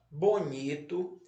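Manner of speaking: "bonito" read slowly with a rising list tune; word dictation. Shown as a demonstration. Teacher repeats the word list for pupils, "bonito" in careful dictation. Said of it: "vamos lá repetir as palavras".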